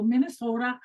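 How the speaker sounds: imitated North Dakota accent on Minnesota; Fargo accent. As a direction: say Minnesota with a playful Fargo lilt. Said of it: "North Dakota accent".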